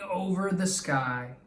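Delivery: expressive read-aloud storytelling voice; story narration. Acted. Teacher reading a story to her class, lively and expressive. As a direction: read it like a picture book to young kids.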